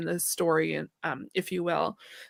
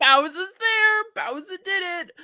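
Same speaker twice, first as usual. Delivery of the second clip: mock exasperation; 8 semitones higher, 4 dB louder than usual. Retelling friend's swearing message.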